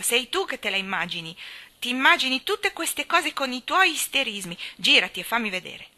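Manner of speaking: firm, somewhat loud scold; a girl telling off her cousin. Acted. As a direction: tell him off sharply. Mary scolds Colin.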